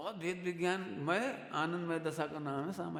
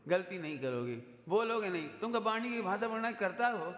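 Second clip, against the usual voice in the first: scolding Pandit. Retold or imitated. Preacher voicing his teacher rebuking a student, raised and pointed. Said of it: "तो हमें पंडित साहब बोले".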